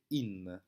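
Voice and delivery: "in" read with a silent final e; Walloon article in. Shown as a demonstration. Teacher reading out the Walloon article. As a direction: say "in" short. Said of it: "cet article va se prononcer".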